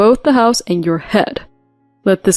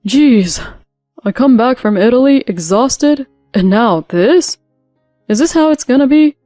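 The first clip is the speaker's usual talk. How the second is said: ranting; 5 dB louder than usual. Acted. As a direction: rave at her like an outraged husband. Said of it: "He started to clamor and rant and rave".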